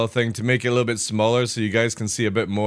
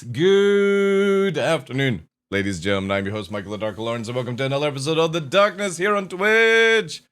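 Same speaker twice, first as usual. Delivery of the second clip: stretched-out announcer greeting; lightly hammed-up host welcome; show host intro; 2 semitones higher than usual. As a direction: open the show like a presenter.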